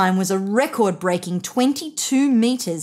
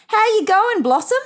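much higher, louder, cheerful sing-song; a mother calling up sweetly to her little one; mother's question; 13 semitones higher, 5 dB louder than usual. A narrator's reading. Mother asks her child.

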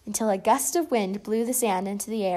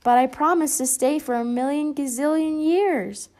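louder, higher call; 5 semitones higher, 5 dB louder than usual. A narrator's reading. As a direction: call down from the sky. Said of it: "called the yellow bird".

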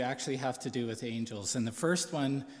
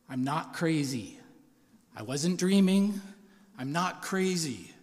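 retold upset plea, higher and louder in the middle; imitated distressed insistence; 4 semitones higher, 5 dB louder than usual. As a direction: act out her urgent protest without real tears. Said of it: "she's just shaking and crying".

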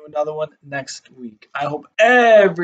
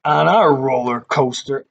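reading a sign aloud; 4 dB louder than usual. Shown as a demonstration. Reading the carnival sign to kids, mock announcer. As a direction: sign read out in a bright voice. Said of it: "And it says".

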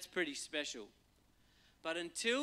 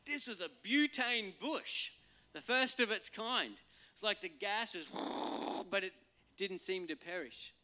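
Ken Davis impression; 5 semitones higher than usual. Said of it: "Ken Davis's take on this".

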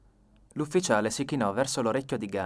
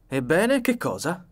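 higher, louder indignant exclamation; exclaiming; 6 semitones higher, 6 dB louder, slower than usual. A narrator's reading. Narrator blocked by Ganimard, exclaiming. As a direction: exclaim at being stopped.

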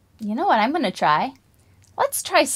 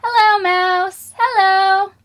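modelled greeting; 7 semitones higher, 5 dB louder, slower than usual. Shown as a demonstration. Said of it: "Can you say hello to the mouse".

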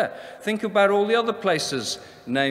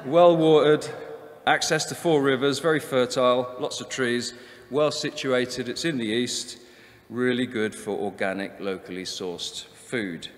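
Essex estate agent reeling off selling points; Essex accent. Pretend. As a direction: put on Essex for a property blurb. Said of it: "I'm doing an Essex accent, but I'll persevere".

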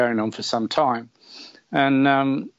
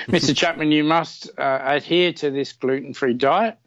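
put-on weak Polish accent, doctor's warning; a light try at a Polish accent; 2 semitones higher than usual. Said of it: "that's not a very good Polish accent".

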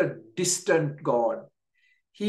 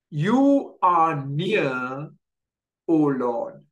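slow reverent prayer; 4 dB louder, slower than usual. Acted. Preacher quotes the psalmist's prayer.

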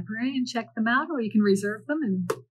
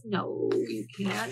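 flat denial; 5 dB quieter, slower than usual. Acted. Luke denies Anton.

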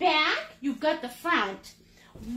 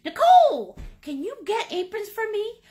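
imitating a fan asking; 7 semitones higher, 5 dB louder than usual. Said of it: "a bunch of people were asking me".

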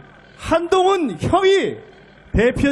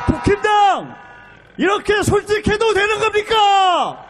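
shouted rhetorical question; 3 semitones higher than usual. Real, not acted.

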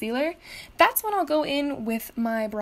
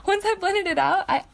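high, loud words through a laugh; 8 semitones higher, 4 dB louder than usual. Real, not acted. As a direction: still laughing as you talk. Laughing at her forgetfulness.

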